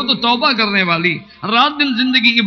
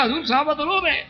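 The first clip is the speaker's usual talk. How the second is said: fast, higher, pressing words; mild urgent plea; 5 semitones higher, faster than usual. Retold or imitated. Umar urging the Prophet about the weeping companions, fast and high. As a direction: hurry to tell him the news. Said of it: "میں نے کہا".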